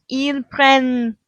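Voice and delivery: "prennent" slowly, ending on a clear N; double N heard. Shown as a demonstration. Teacher pointing out the heard double N, slow. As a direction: say "prennent" as "prɛn" with the N ringing. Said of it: "two N's and we hear them".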